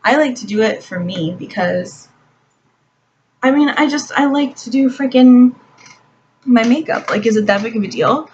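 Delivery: mock heated comeback to men asking who she's trying to impress; heated retort. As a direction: push back hard at the critics. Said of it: "I'm like".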